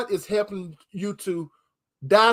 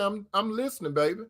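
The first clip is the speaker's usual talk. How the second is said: soft reply; 2 semitones higher, 6 dB quieter, faster than usual. Retold or imitated. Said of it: "I say".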